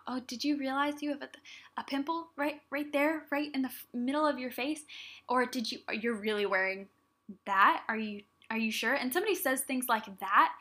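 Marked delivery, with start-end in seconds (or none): 0.1-4.8 mock-innocent dig, pitched a little up; snide comment. Someone needling her about a pimple, imitated snide remark. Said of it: "they just make some kind of snide comment". 5.3-8.9 mock doubt with a jab on THAT; snide comment. Someone questioning her outfit, imitated snide remark. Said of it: "they just make some kind of snide comment".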